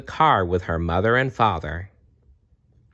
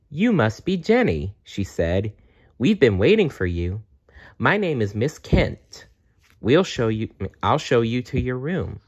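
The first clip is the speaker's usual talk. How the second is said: higher, cheerful nurse voice; friendly nurse; 3 semitones higher than usual. Acted. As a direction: welcome a shy child warmly. Nurse Miss Kent greets Jenny.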